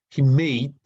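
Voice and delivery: made hit loud; stress on made. Shown as a demonstration. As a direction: punch the word made. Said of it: "teacher stresses answer".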